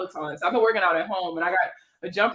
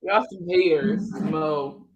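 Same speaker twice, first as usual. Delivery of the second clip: slower Baltimore accent; 4 semitones lower, much slower than usual. Shown as a demonstration. Streamer repeats her jab at teasing viewers, slow Baltimore accent. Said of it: "make fun of that B More accent".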